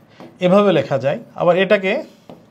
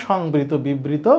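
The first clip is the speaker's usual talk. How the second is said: slow recap; 3 semitones lower, 3 dB quieter, much slower than usual. Shown as a demonstration. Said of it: "প্রাথমিক দুইটা জিনিস শিখলাম".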